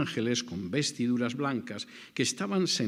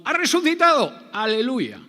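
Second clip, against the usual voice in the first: much higher and louder, a hammed-up hallelujah; mock jubilant shout; 12 semitones higher, 10 dB louder than usual. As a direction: play the triumphant believer she was not.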